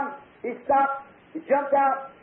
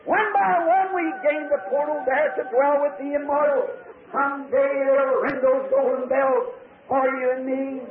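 solemn hymn recitation. Retold or imitated. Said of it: "He said".

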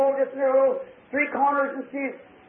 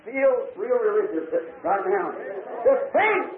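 full-voiced revival preacher, pitched up; fervent preaching. Preacher assuring the congregation they are held, fervent preaching.

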